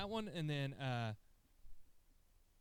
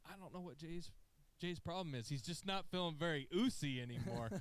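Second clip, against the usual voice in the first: higher, sheepish joking aside; mock sheepish excuse; 4 semitones higher than usual. Sami excusing Jey to the crowd, mock sheepish. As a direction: play it innocently sheepish. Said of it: "He's like".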